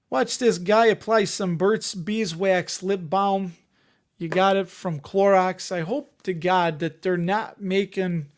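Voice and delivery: a mild, half-hearted attempt at a Chicago accent. Streamer hamming up chat talk about wings in a weak Chicago accent. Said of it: "work on my Chicago accent".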